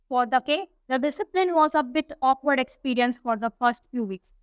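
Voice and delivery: reads the English text slowly and carefully; unhurried storybook reading; slow story reading. A narrator's reading. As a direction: read it out word by word for the class. Slow English read-aloud of story.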